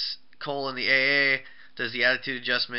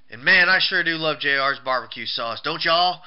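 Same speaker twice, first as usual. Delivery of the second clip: louder mock redneck twang; redneck accent; 3 semitones higher, 6 dB louder than usual. Wrestler praising barbecue sauce to everyone, mock redneck accent. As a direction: imitate a redneck hollering to the crowd. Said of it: "Says it like a redneck".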